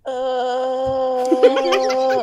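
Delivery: long, slow, drawn-out uh groan; Tina groan. Retold or imitated. Friend imitates Tina from Bob's Burgers, slow drawn-out groan. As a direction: stretch the uh out like a bored cartoon teen. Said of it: "Tina from Bob's Burgers?".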